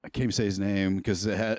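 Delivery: trips over the words and cuts off; stammering. Real, not acted. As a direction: stumble and break off mid-word. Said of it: "I'm pausing and stammering again".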